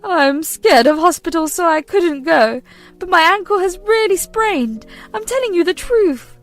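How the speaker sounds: high, loud insistent whine; whiny pleading. Acted. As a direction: insist through fake tears. Mother pleading fake injury.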